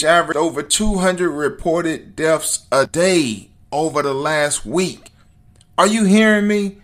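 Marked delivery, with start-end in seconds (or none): 5.8-6.8 raised, louder challenge to listeners; pitched up and insistent; emphatic demand. Real, not acted. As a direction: call out urgently for their attention. Demands attention to the death toll.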